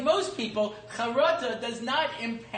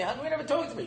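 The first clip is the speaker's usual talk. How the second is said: higher-pitched retold appeal; exasperated dad's question; plaintive parent; 5 semitones higher, much faster than usual. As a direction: plead mildly, puzzled at being ignored. Repeats his plea to daughter.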